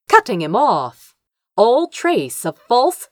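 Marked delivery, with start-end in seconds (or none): none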